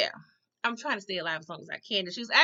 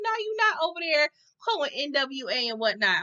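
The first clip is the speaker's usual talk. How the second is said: high retort; 6 semitones higher than usual. Retold or imitated. Vlogger retort.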